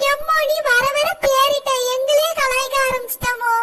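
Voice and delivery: usual speaking voice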